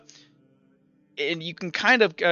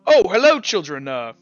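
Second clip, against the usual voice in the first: fussy priest; 5 semitones higher, 5 dB louder than usual. Acted. Father Zephyrin greets the children, high and syrupy. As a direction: coo at the children with fake politeness. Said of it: "He goes".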